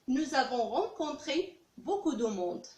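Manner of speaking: slow, deliberate French past tense; slow model sentence. Shown as a demonstration. Teacher contrasting the past sentence for students, slow. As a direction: lay out the past form slowly. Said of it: "teacher contrasts present and past".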